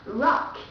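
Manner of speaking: strong English R at the start of "rock". Shown as a demonstration. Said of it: "R sound in English is much stronger".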